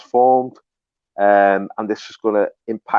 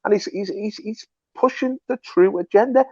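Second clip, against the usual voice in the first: much higher, rising with zeal; fervent praise; 10 semitones higher than usual. Real, not acted. To the host, hailing Trump as anointed, fervent and much higher. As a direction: lift it up like a fervent sermon.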